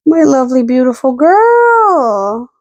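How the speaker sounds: slow, doting coo to her dog. Real, not acted. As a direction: stretch each word out lovingly. Cooing over her dog.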